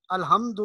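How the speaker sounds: الحمد with a plain h; wrong soft ha. Shown as a demonstration. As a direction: say الحمد without constricting the throat. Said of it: "یہ درست نہیں ہے". (الحمد میں حا کے بجائے ہا)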